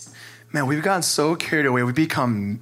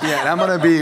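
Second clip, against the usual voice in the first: recovering from laughter; laughing; 4 semitones higher, 5 dB louder, faster than usual. Real, not acted. Trying to go on to the group, still laughing. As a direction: talk through the last chuckles.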